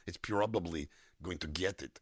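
Russian accent with Y glides. Shown as a demonstration. Voice actor approximating an accent, Russian with added Y's. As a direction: slip Y sounds into a Russian accent. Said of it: "they seem to put Y's in everything".

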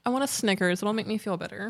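trying not to cry; fighting back tears. Real, not acted. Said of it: "legit makes me wanna cry".

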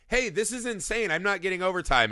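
a lightly voiced trucker who wants no part; imitating the trucker. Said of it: "he goes".

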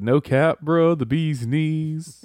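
trying too hard cool. Pretend. Slang run, slowed.

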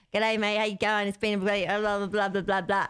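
lightly broadened Aussie twang, words linked together; casual Aussie slur of words; broad Australian accent. Shown as a demonstration. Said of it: "it's that kind of broad accent".

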